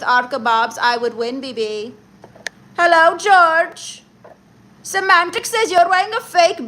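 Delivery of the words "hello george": slow sing-song greeting. Acted. Drawn-out stream greeting.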